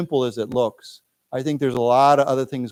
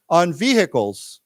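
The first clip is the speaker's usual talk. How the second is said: slow model reading; 2 semitones higher, slower than usual. Shown as a demonstration. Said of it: "let's read this".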